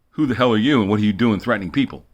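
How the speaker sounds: loud, imitated agent's demand; gruff FBI challenge. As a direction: act out an agent angrily confronting someone. Acts out the FBI questioning him.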